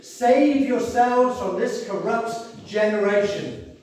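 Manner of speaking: slow, weighty Bible reading; solemn scripture reading. Acted. Preacher reading scripture to the congregation, slow and solemn. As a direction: read the verse with solemn pauses.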